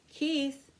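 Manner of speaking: a call across rooms. A narrator's reading. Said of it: "called his mother".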